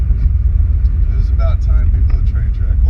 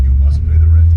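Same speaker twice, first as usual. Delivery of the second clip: sneering panto villain; 9 semitones lower than usual. Acted. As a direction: lean into a hammy melodrama baddie. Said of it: "A villain".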